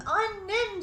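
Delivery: imitated coaxing call.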